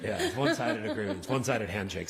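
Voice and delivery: said through light laughter; lightly laughing along with the joke; amused. Real, not acted. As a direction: join the laughter while talking. Joking amid shared laughter at meeting.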